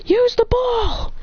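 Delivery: high-pitched battle call; acted urgency, stretched at the end; urgent call. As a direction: urge a teammate into action. Troy urgently calls to Alex.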